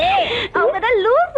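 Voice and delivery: slow, high dismissive retort; mock scorn; scoffing. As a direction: brush it off mockingly.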